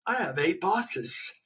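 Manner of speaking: lightly voiced weary office worker; a hint of a fed-up employee; quoting a film line. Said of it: "There's a line in there when he goes".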